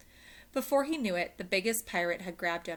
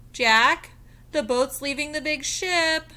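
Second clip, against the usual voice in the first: urgent call; 8 semitones higher, 11 dB louder than usual. Acted. Annie calls to Jack.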